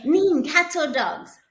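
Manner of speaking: imitating five-year-old Donovan. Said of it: "And he'd say".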